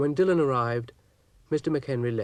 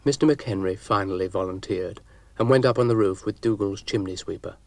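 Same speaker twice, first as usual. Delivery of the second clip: ordinary delivery, nothing marked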